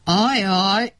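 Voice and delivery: a worried little groan. A narrator's reading. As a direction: moan it like bad news just landed. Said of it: "nyögött fel".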